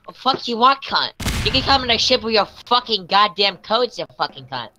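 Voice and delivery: retold banter with an Irish lilt; light Irish-tinged mock abuse; Irish-sounding accent. Retelling voice chat greetings, Irish-sounding. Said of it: "That sounds so Irish".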